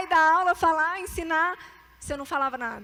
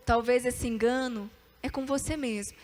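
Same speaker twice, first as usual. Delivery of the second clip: usual speaking voice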